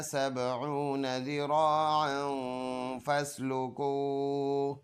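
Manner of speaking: flowing melodic recitation without stopping; fluent Quran recitation. Shown as a demonstration. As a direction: chant the whole passage in one smooth tune. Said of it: "एक मरतबा सिर्फ रवा पढ़ते हैं". (पूरी रवानी से तिलावत)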